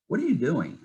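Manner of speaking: high-pitched imitation of a fed-up wife; mock confrontation, pitched well above normal; retold exasperated challenge. Wife confronting her moping husband on the couch, retold exasperation.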